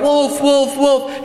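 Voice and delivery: quick, high-pitched repeated calls; mock cry of alarm. Bored shepherd boy fooling the villagers, mock crying out. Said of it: "And so he cries out".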